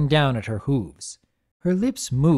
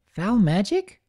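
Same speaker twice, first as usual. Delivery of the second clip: suspicious filly voice; 7 semitones higher, slower than usual. Acted. Sweetie Belle narrow-eyed.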